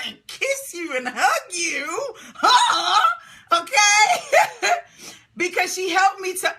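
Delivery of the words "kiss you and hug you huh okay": playful gushing. Real, not acted. Coach threatens to hug Lorraine through the camera, playful gushing. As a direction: gush and rise into a teasing check-in.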